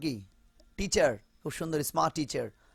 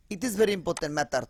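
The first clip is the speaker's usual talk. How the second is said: mock Asian accent; slower than usual. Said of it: "ত হয়ে গেল".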